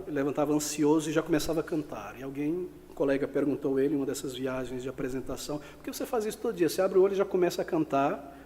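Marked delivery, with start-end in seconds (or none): 5.6-8.4 lightly voiced colleague, quick and higher; a quick, higher-pitched question, mildly imitating a colleague; puzzled colleague. Colega questiona o cantor de ópera. (colega intrigado, levemente imitado)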